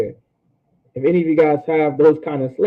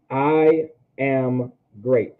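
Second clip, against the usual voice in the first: "I ... am ... great", very slow with gaps between words; slow, separated teaching delivery of "I am great"; much slower than usual. Shown as a demonstration. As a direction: spell out "I am great" one slow word at a time. Repeats translation word by word.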